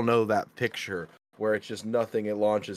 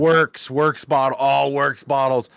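mocking voice; 5 semitones higher, 5 dB louder, slower than usual. Mocking mispronounced works bottle.

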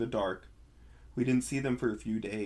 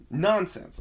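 loud, higher brush-off; dismissive; 9 semitones higher, 9 dB louder than usual. A narrator's reading. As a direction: wave it away with a louder snort of dismissal. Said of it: "I said".

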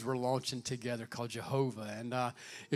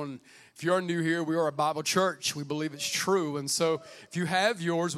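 usual speaking voice

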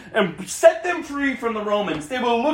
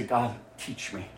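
very low, soft plea; humble prayer; 12 semitones lower, 14 dB quieter than usual. Acted. Believer asking God for help, humble prayer. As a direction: pray it quietly, almost to yourself.

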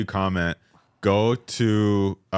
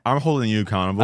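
mock accusation; 3 semitones higher, faster than usual.

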